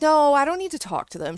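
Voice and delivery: put-upon protest, imitated; annoyed refusal. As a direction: imitate someone irritably brushing off a request. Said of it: "Can you hear how annoyed she sounds?".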